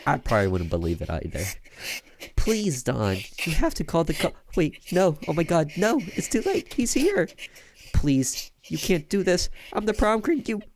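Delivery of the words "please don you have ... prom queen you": rising into a terrified scream. Acted. Victim as killer arrives.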